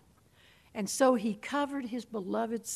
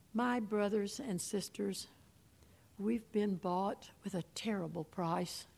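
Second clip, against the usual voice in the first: usual speaking voice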